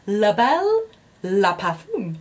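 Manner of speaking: La Belle La Parfum with a light, self-conscious French accent. Shown as a demonstration. Naming the perfume for viewers in a light French accent. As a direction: try the French way on La Belle La Parfum, a touch awkward. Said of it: "I keep saying it in a French accent".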